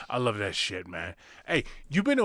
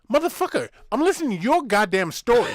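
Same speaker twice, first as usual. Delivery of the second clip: high-pitched mock outburst, much higher; mock outrage; 7 semitones higher than usual. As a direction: squeal it out in fake indignation, way up high. Retold outburst at condescending guy.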